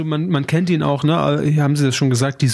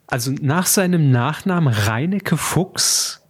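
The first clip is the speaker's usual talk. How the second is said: mock interviewer; 5 semitones higher, slower than usual. Mock interview question to co-host.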